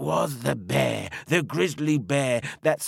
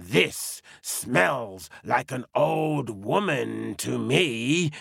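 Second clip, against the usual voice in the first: growling bear; slower than usual. Acted. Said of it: "growled that grizzly bear".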